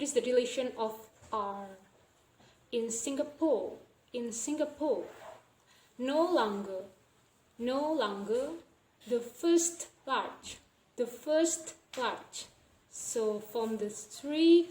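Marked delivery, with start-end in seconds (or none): 2.7-12.5 "Singapore", "longer" and "first" with no R; dropped R. Shown as a demonstration. Teacher reading three example clauses, R dropped from "Singapore", "longer", "first". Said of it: "we don't pronounce the R".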